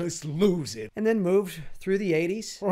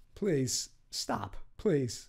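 hushed, breathy, whispered put-on voice; 5 semitones lower, 8 dB quieter than usual. Listing impressions that everyone does: Christopher Walken voice. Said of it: "the Christopher Walken".

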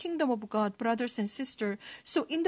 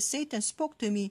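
normal talking voice

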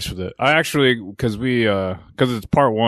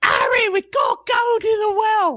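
very high, shrieking, screeching dying zombie voice. Voicing the woman character, addressing harry, in a screeching dying zombie voice. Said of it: "your woman sounds like a zombie. A screeching, dying zombie".

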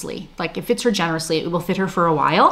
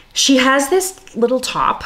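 "little" stressed and pitched high. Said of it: "emphasis on little".

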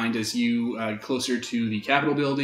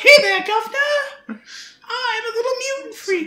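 put-on very high, loud, squeaky child voice; 5 dB louder than usual. Playing a psychic-looking girl greeting the Governor: kid voice. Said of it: "kid voice".

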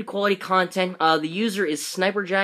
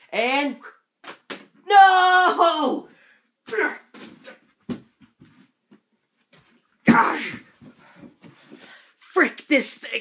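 short, pitched-up raging outburst; 8 semitones higher than usual. Failing the final attempt in a hat challenge, a little burst of rage. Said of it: "that was a little bit of rage".

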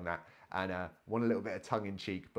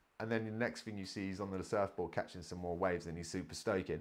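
usual speaking voice

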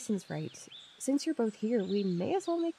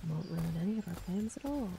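soft sarcastic mutter under the breath; 6 dB quieter than usual. After apologizing to Jason, Maggie adds a line, muttered under her breath. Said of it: "(Under her breath)".

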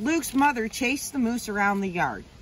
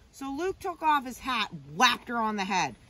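plain reading voice

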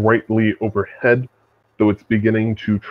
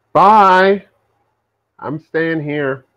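loud, high, slow, drawn-out calling voice; 7 semitones higher, 5 dB louder than usual. Voicing Ramus waving down from the ship: Ramus calling down from the ship. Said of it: "Ramus remains on the ship and waves down after you".

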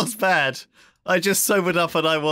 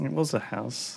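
very quiet, hushed, truly sorrowful voice; 5 semitones lower, 10 dB quieter than usual. Lamenting that another player has taken over the house: genuinely sad. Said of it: "You sounded so genuinely sad".

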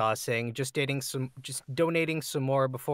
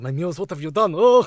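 put-on shouting with Russian accent; 5 semitones higher, 11 dB louder than usual. Performing a requested line from a character: Elijah Russian accent. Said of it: "request to voice any Elijah accent, Elijah Russian accent line".

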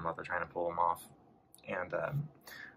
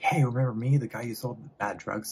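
furious outburst, higher pitched and louder; 5 semitones higher, 6 dB louder than usual. Retelling a movie scene where a character attacks someone: imitating an angry outburst. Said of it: "loses his shit".

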